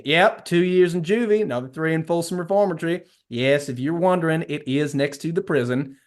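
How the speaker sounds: a hammed-up Southern twang, proud of his record; folksy mock Texan; terrible Texan accent. Dean brags to the principal about his résumé, in a terrible Texan accent. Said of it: "the main guy has a Texan accent".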